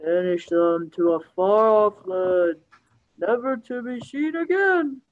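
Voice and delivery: slow, drawn-out ghostly voice; haunting voice. Acted. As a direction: moan it like a ghost in stone. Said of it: "a ghostly voice emanated from the statue".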